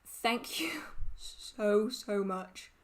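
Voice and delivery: laughing thanks. Real, not acted.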